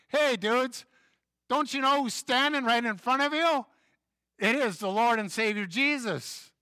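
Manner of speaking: high, loud exasperated call to the disciples; pretend scream. Preacher yelling at the blind disciples, loud and high. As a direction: yell it like you can't believe they missed him. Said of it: "I just wanna scream".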